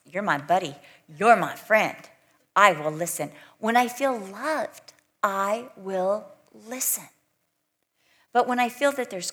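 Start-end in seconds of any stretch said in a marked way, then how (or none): 0.1-3.3 eager reply. Retold or imitated. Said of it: "I'm like".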